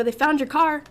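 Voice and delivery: telling mom in excited disbelief; excited retelling. Retold or imitated. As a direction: blurt it out, amazed. Telling mom the news, laughing.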